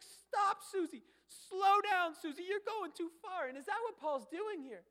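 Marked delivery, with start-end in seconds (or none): 0.0-3.5 much higher and louder, slowing on "slow down"; alarmed parent. Retold or imitated. Parent calls after Susie speeding off, loud alarmed shout. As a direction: call after a child racing away on a bike. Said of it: "so then the parent's like".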